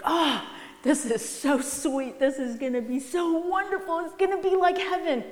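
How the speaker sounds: high, eager little mouse; a mouse gushing over the grain; excited mouse voice. Acted. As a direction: squeak it out like a greedy mouse. People voiced as greedy mouse.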